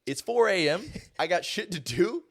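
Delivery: imitating a fed-up roommate at 4 AM; getting fed up. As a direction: snap at the snorer in mock anger. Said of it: "starting to get into a little bit more of a".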